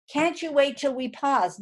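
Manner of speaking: exasperated parent. Retold or imitated. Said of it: "I mean".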